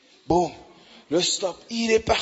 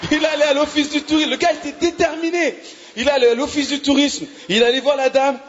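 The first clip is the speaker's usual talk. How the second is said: laughing amazement; 7 semitones higher, 3 dB louder than usual. Real, not acted.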